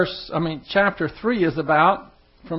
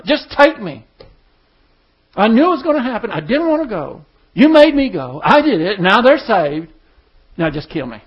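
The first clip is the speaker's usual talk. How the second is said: louder desperate pleading, fading at the end; distraught Jonah; 2 semitones higher, 4 dB louder than usual. Retold or imitated. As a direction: beg to be done with it all. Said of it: "He was so distraught".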